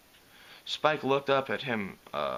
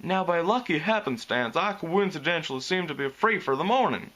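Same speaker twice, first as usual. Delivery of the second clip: nonchalant; 5 semitones higher than usual. A narrator's reading. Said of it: "with a studied nonchalance".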